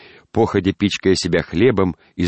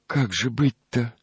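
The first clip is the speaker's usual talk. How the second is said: soft and tender; 6 semitones higher, slower than usual. Acted. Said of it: "милый и чрезвычайно мягкий женский голос".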